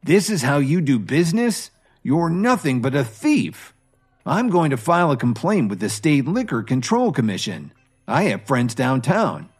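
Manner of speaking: high, loud, indignant threats; angry and loud. Acted. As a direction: confront the manager, heat cooling toward the end. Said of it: "stepped up to him angrily and asked loudly".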